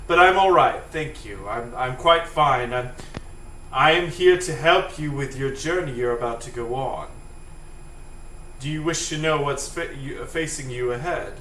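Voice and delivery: lightly voiced, politely proper cell; proper Helper T cell. Helper T cell offering help on the journey, mildly proper. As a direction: offer help with a touch of formality. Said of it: "his properness".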